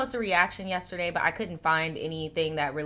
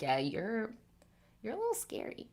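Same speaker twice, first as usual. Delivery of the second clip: imitating a lady; 3 semitones higher, 10 dB quieter than usual. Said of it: "she was like".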